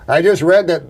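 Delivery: lightly voiced comic delivery, a little lifted; Miller impression. Guest quoting another comic's joke, light impression. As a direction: slip lightly into his manner of talking. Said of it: "that's how he talked".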